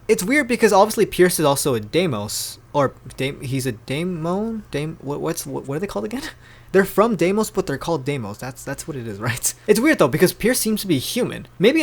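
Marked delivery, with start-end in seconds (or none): none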